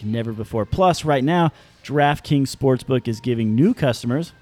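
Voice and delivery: upbeat sponsor read. Acted. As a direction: sell it like a radio ad. Reads DraftKings ad.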